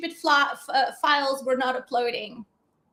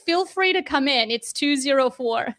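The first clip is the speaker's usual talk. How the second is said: usual speaking voice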